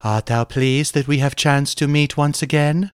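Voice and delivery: lightly voiced damsel in archaic speech; rescued damsel. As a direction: greet your rescuer as a storybook maiden. Rescued damsel greets her hero.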